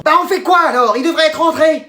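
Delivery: high-pitched, fretful urgency; panicked mother. Acted. Mother waits for late son, comic panic.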